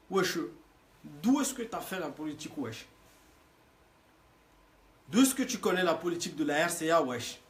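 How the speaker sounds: banlieue French. Pretend. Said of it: "je te parle comme les racailles".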